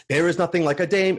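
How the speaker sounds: lightly hammed musical-theater sailor line; high school drama club character; South Pacific stage character. Shown as a demonstration. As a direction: deliver it like a school-play show tune lyric, spoken. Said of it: "production of South Pacific".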